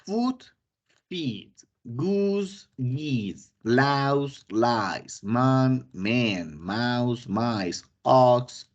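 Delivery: reads each English singular and plural clearly; teacher modelling English plurals; English plural demo. Shown as a demonstration. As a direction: model the English words for learners. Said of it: "Estos son irregulares".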